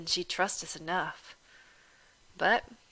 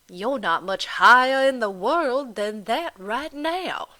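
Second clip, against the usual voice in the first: mocking Irish landlady; 6 dB louder, slower than usual. Landlady goading Delphine about her planter father, loud and mocking. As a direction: needle her with each question.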